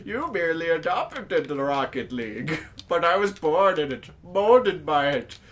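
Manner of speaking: lightly voiced theatrical villain boast; Bane. Player boasts of his save, mild villain parody voice. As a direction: intone it slowing toward the end. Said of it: "Can I be Bane".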